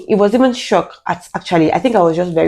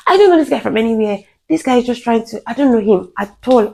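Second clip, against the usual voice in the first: retold shouting; 6 semitones higher than usual. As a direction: plead your case to a gathering crowd, urgently. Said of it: "like, shouting just so that people".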